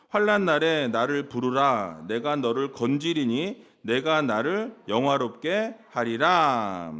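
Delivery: slow, measured congregational Bible reading; scripture reading. Acted. Preacher leading the congregation in a psalm, slow solemn reading. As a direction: read it out slowly, stretching the final words.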